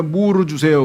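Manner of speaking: 무르 said with an added vowel in place of the final l; Japanese-style mispronunciation. Retold or imitated. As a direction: imitate a Japanese speaker saying 무르 for 물. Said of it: "물 발음을 못하니까". (일본식 발음 무르)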